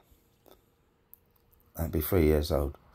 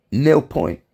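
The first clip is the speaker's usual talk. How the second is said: announcer voice; 7 semitones higher, 9 dB louder than usual. Retold or imitated. Eurovision score quote.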